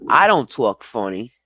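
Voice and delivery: loud, playful protest; jokingly affronted denial; mock indignation. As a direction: deny it loudly, kidding. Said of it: "No, I'm just playing".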